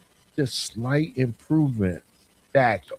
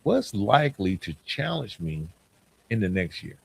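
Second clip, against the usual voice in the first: softer self-question; quiet reflective ask; quiet inner question; 2 semitones lower, 5 dB quieter than usual. Shown as a demonstration. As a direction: ask it softly of yourself. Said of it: "just ask yourself".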